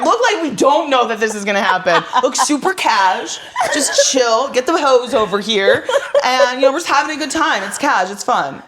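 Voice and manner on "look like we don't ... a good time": mock briefing. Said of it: "pretend crew meeting".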